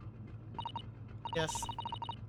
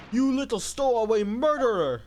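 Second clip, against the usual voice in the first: angry sailor shout; 7 semitones higher, 9 dB louder than usual. Acted. Sailor yelling at a stowaway, furious shout. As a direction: bellow it higher and louder, outraged.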